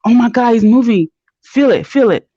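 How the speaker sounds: eager, thrilled insistence; excited urging. Retold or imitated. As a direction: urge someone eagerly to come and share it. Retells urging dad to feel baby.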